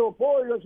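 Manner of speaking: οπόιος with a light ο before ι; ancient pronunciation. Shown as a demonstration. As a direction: sound both vowels of οι in οπόιος. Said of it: "αλλά πολύ ελαφρύ".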